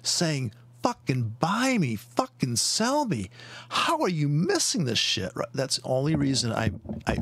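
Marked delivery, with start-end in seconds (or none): 0.8-5.3 market yelling. Retold or imitated. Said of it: "The market's yelling at you".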